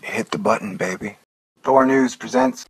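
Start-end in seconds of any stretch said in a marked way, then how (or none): 1.6-2.7 high, slow announcer intro; mock news intro. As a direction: announce the show grandly. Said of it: "This is a Thor News presentation".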